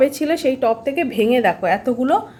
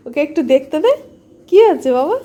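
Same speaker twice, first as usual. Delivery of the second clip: coaxing pet talk. Real, not acted. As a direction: sweet-talk the dog into sniffing. Coaxing the dog to sniff.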